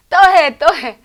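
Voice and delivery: put-on high, loud insistent little-kid demand; child begging again. Child begging for more reading.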